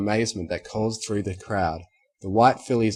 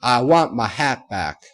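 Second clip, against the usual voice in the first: tearful; 7 dB louder than usual. Acted. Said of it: "tears still flowing".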